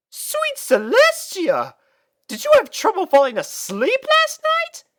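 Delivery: be scandalised by the mess; shocked elegant mare; aghast. Acted. Rarity aghast.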